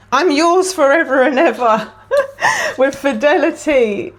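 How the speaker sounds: high, overcome, laughing as it's read; emotional laughter. Real, not acted. Reader moved by the card's message, emotional laughter. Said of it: "I'm emotional".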